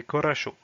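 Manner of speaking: coracho with both o's said like a; Russian word modelled. Shown as a demonstration. Teacher models coracho for the class, clearly. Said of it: "qui se prononce".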